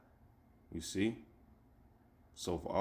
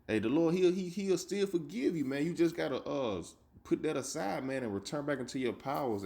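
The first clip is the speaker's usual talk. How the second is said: fervent pleading; 6 semitones higher than usual. Real, not acted. Street preacher urging scoffers to repent, rising fervent plea. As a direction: pitch jumps high as he pleads forgiveness.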